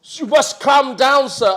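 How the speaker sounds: slow, high, loud mock officious voice; imitating the boat owner. Boat owner telling the angry renter, mock stern. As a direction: lecture the customer to calm down. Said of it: "And he goes".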